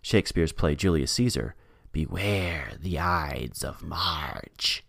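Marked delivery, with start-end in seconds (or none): 1.9-4.8 slow, low, hushed witch voice; evil witch voice. Retold or imitated. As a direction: draw it out like a menacing witch. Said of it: "in an evil witch voice".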